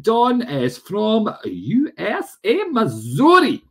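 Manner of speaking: high, slow put-on American accent; attempted American accent. Streamer greets a viewer from Missouri, mock American accent. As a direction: have a playful go at an American accent. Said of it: "Don't know what accent that was I tried to do".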